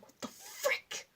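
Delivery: very high, slow, squeaky gasp of alarm; squeaky frick. Retold or imitated. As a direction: squeak it out, spooked while home alone. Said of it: "so I'm like".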